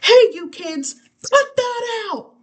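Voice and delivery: high, loud telling-off; hammed-up cranky adult yelling at children; grown-up's scolding shout. A narrator's reading. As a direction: holler at noisy kids, stretching out the last words. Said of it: "than it is to shout".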